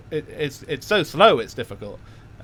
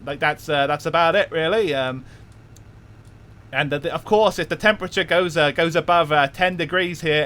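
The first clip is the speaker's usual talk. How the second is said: a light put-on Cockney London accent, a touch faster like an auctioneer. Streamer announcing Cockney mode to chat, in a lightly put-on Cockney accent. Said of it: "I put on the traditional London accent".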